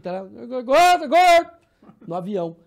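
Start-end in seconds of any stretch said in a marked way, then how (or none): 0.6-1.5 high, very loud repeated yell; acted-out tic shout; imitated tic outburst. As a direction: burst out with it uncontrollably. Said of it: "pra dar uma disfarçada".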